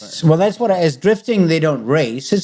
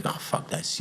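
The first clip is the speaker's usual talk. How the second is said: muttered aside; 14 dB quieter than usual. Retold or imitated. Fed up with Hollywood.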